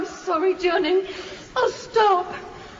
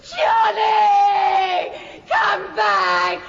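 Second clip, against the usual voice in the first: calling out; much slower than usual. Acted. Wife shouting after her husband as he leaves. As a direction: call him back desperately.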